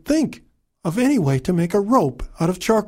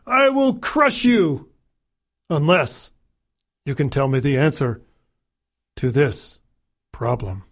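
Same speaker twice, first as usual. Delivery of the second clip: a hint of a menacing overlord; booming arrogant alien overlord; 3 semitones lower than usual. Overlord threatens the kingdom.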